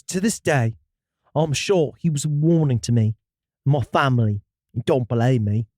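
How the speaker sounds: put-on British accent with "day" reined in. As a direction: finish the tale in a put-on English accent. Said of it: "You did this".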